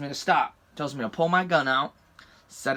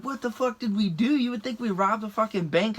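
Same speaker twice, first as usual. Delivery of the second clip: higher-pitched retold outrage; indignant outburst; 7 semitones higher than usual. Driver protesting his treatment by cop, retold indignation. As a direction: protest it in a raised, incredulous pitch.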